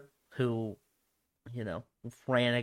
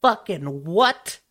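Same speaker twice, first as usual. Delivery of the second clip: shocked; 7 semitones higher, 6 dB louder, slower than usual. Real, not acted. Shocked at Putin's age.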